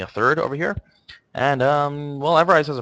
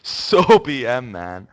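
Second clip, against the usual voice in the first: put-on Hispanic accent; 5 dB louder, much slower than usual. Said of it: "in his Hispanic accent".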